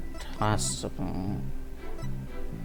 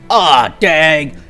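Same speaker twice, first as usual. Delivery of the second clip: noir detective. Acted. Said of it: "too similar to my fucking Gumshoe voice".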